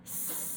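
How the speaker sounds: long S sliding into sh; s into sh demo. Shown as a demonstration. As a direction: hiss S, pull the tongue back to sh. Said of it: "Here we go".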